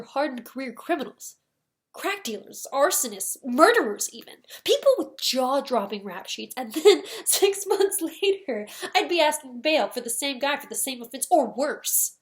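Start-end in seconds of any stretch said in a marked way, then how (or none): 1.9-12.2 indignant. Acted. Indignant list of criminals he freed.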